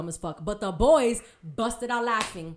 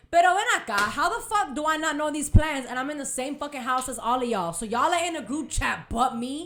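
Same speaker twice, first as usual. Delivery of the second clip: loud, fast indignant outburst; 2 semitones higher, 4 dB louder, faster than usual. Retold or imitated. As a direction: fire it off in disbelief, quickly. Indignant at being left out of plans.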